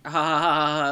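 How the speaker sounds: imitated awkward "ha ha ha"; fake laugh. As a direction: force out a polite mock laugh. Retold awkward excuse to family.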